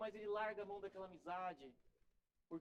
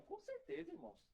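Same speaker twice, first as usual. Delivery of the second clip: emphatic exclamation; 10 semitones higher, 5 dB quieter than usual. Real, not acted. Pastor assures the congregation, high emphatic exclamation. Pastor affirms God wants prayer.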